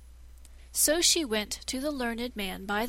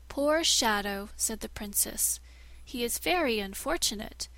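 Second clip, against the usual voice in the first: pitying princess. Acted. Princess coolly plans killing.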